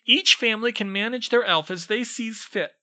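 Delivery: very high, loud squeaky elf whine; whined. Acted. House elf explains his bondage, whining squeakily. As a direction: complain it like a tiny servant. Dobby's voice held.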